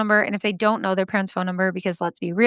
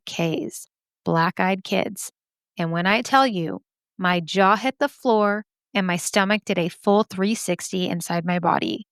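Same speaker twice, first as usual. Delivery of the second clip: measured, dramatic spooky-story reading; story narration. A narrator's reading. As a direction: tell it like a Halloween campfire tale. Reads a listener's scary story.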